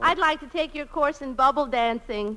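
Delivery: lightly drawled Southern belle, sweet and coy; a hint of a Southern lady angling for favours; Southern belle accent. Woman asks the dancing professor for lessons, in a light Southern belle accent. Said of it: "pound cake with an accent".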